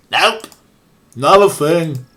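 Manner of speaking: put-on perky Midwest accent; hammed-up Fargo Midwest accent. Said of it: "my best approximation of some sort of Midwest accent".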